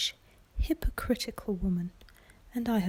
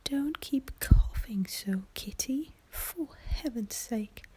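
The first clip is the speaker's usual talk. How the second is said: a lightly voiced nervy mother, scolding in a whisper; whispered fretful mother; 4 semitones higher, 5 dB louder than usual. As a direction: fuss at Kitty in a slightly higher whisper. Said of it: "began scolding at one of her daughters".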